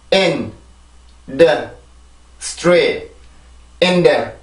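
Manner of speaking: In, the, Street each said alone and slowly; syllable by syllable. Shown as a demonstration. Teacher building the word one syllable at a time. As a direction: separate each syllable of industry clearly. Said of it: "한 음절, 한 음절 발음을 해볼게요".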